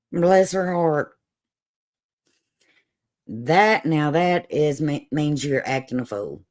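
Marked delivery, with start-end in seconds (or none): 0.1-1.2 slow, drawn-out bless your heart; stretched out, mock-sympathetic put-down; backhanded. Shown as a demonstration. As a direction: politely call them a fool, slowly. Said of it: "this one little phrase can go two ways".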